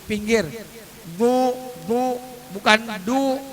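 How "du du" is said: heavy "du" from the side of the tongue. Shown as a demonstration. Teacher showing the letter dad, "du" with side tongue. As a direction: press the tongue edge for "du". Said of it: "lidah taruh di pinggir".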